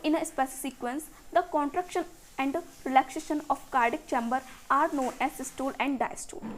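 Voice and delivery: very slow, word by word, so students can write; slow textbook dictation. Shown as a demonstration. Teacher dictating the definition to her students, slowly. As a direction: read each English word out slowly and evenly.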